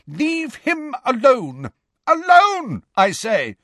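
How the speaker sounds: high, slow commanding voice; stern command. A narrator's reading. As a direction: order them to stop. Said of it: "said Professor McGonagall's voice".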